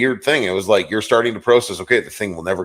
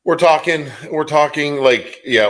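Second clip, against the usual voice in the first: excited emphasis; 9 semitones higher, 5 dB louder than usual. Real, not acted. Emphatic correction about hockey.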